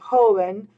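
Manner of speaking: "joven" with the first syllable stressed. Shown as a demonstration. Teacher showing where the accent mark keeps it, first-syllable stress on "joven". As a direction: lean on the opening syllable of "joven". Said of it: "stress being on that first syllable".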